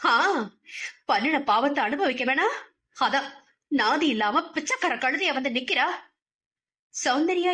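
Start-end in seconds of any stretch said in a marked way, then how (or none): 0.0-5.9 venomous, slightly raised scolding; bitter mocking retort; spiteful snap. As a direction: jeer at her with malice. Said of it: "வன்ம குரலில் எகிரினார்".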